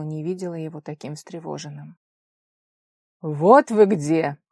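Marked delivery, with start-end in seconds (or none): 3.2-4.4 loud, slow, impatient bark. Acted. Father finding his daughter, slow loud bark. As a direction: bark at them to hurry. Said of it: "нетерпеливо рявкнул он".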